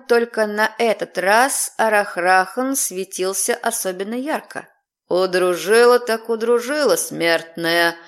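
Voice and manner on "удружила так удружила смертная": booming low demon voice; demonic layered voice. Acted. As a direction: thunder it like a fire demon. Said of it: "громыхнул демонический голос".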